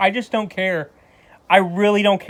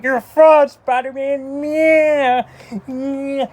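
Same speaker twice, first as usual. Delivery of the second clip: tantrum; 6 semitones higher, much slower than usual. Retold or imitated. Harry yelling at Spider-Man for refusing, childish tantrum. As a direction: throw a five-year-old's fit. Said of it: "he throws a five-year-old tantrum".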